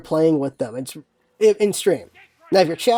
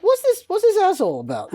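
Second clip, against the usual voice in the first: new viewer's jab; 9 semitones higher than usual. Retold or imitated. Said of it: "they're like".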